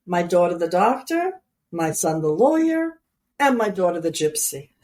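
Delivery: put-on mother's New York accent, proud list with pauses. Mother joking to friends about her three children, New York accent. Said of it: "your accent came, that was very good".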